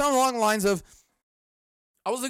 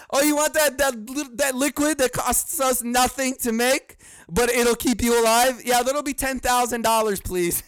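mock sales voice, pitched up; sarcastic seller; 4 semitones higher than usual. Podcaster mocking the drug price, sarcastic. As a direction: sneer it like a greedy seller.

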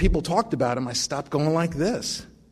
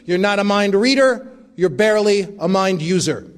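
sweetly; 4 semitones higher, 4 dB louder than usual. Retold or imitated. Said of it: "She said it very sweetly".

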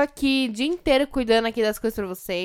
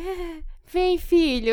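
higher, sugary coo; sweet mom voice; 8 semitones higher, much slower than usual. Retold or imitated. Mother cooing at her son in front of others, high and sweet. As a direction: coo at the child for show. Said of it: "fala assim".

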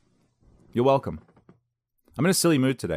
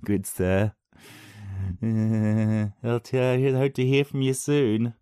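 hammed-up courteous gentleman voice; lightly put-on polite voice to the caller; mock formal politeness; 3 semitones higher, slower than usual. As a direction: play the overly polite caller. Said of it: "And I went".

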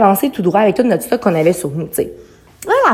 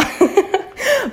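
retold death howl; 11 semitones higher, 3 dB quieter than usual. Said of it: "Je fais le hurle de la mort".

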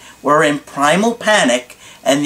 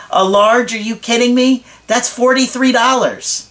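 incredulous outburst; 7 semitones higher than usual. Retold or imitated. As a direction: act shocked by the cost. Acted incredulous reply about price.

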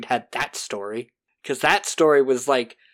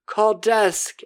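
frantic cry for help; 8 semitones higher than usual. Retold or imitated. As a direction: shout it again, high and desperate. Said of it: "And he's like".

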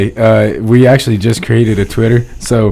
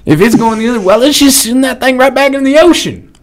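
mock proposal; 7 semitones higher than usual. Mock plan to reverse air.

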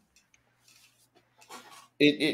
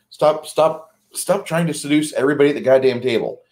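a bit higher and fast, telling the player off; fed-up GM snapping at the table flirt, fast; exasperated mock scolding; 3 semitones higher than usual. GM to flirting player at table, fast exasperated scolding.

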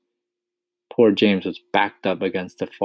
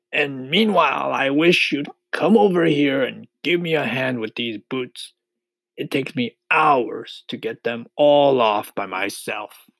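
higher-pitched, chatty centipede voice; 7 semitones higher, 3 dB louder than usual. A narrator's reading. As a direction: ask a favour in a raised character voice.

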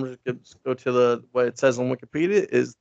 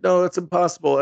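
higher and louder, a sudden startled what; shocked what; 5 semitones higher, 5 dB louder than usual. Retold or imitated. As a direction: blurt it out, caught off guard. Villain in disbelief at Superman.

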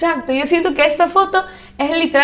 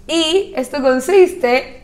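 voice cracking; much slower than usual. Real, not acted. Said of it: "es que me salió un gallo".

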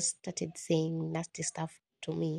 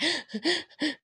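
imitated crying gasp; 9 semitones higher than usual. Imitates heart while crying.

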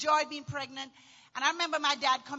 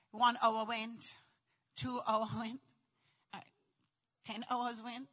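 hushed countdown; 5 semitones lower, 9 dB quieter than usual. Real, not acted. Comedian telling of peaceful labor hours, hushed count. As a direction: let the hours drift by quietly.

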